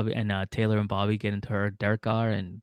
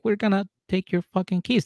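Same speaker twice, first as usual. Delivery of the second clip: high firm warning; stern threat; 10 semitones higher than usual. Retold or imitated. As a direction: lay down the law. Bouncers confronting drunk.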